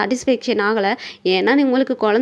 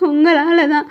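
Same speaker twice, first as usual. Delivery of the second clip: tearful blame; 4 semitones higher, 4 dB louder, slower than usual. Acted. Wife blaming him, cry heard.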